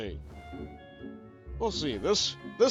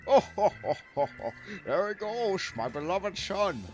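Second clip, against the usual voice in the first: lightly voiced proud father; 5 semitones higher than usual. Voicing proud father character.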